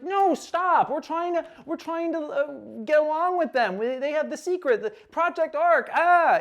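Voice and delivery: high, strained protest; frantic pleading. Retold or imitated. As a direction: act out desperate begging, ending in a cry. Kota pleads during the fight.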